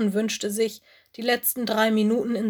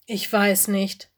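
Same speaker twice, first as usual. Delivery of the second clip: unhappy; slower than usual. Acted. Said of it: "sagte Lenny unglücklich".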